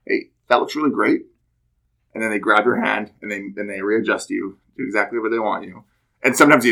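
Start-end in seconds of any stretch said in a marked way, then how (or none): 0.1-1.2 friendly correction. Retold or imitated. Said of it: "No, they say".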